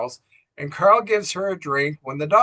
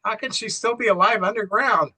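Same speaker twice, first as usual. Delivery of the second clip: high-pitched mild disbelief; retold shock; 6 semitones higher than usual. Carl hearing she was heard underground, mildly shocked. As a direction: imitate a shocked question. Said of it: "So Carl is shocked".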